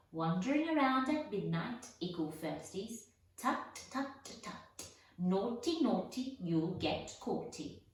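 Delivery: mock the children with glee; gleeful poltergeist. Peeves taunting the first-years caught out, gleeful. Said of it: "Peeves cackled".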